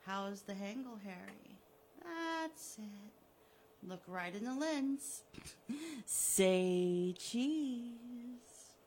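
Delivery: mock-cheery photographer voice; gleeful villain. Killer filming Harry, mock-cheery and gloating. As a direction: play the smug host behind the camera.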